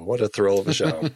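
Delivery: laughing through the words. Real, not acted. Friend repeats the quip about the show, laughing. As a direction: let a laugh break through the line.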